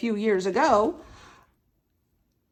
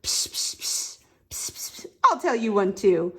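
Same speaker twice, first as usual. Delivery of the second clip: whispering; 3 semitones lower than usual. Acted. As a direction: whisper psst into an ear. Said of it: "and I'll whisper".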